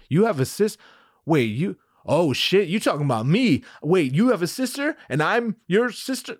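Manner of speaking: mock startled realization, pitch rising; halting, then high-pitched disbelief; dawning shock. Leia realizes she is the sister, mock shocked.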